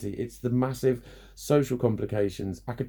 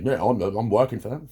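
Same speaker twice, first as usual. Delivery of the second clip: smug taxpayer; 4 dB louder than usual. Retold or imitated. Mocking taxpayer complainers.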